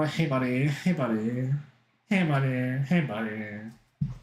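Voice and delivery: put-on "buddy" voice, drawn out at the end; repeated greeting in a mock code switch. Shown as a demonstration. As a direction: switch into a lightly put-on chummy voice. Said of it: "do I need a code switch".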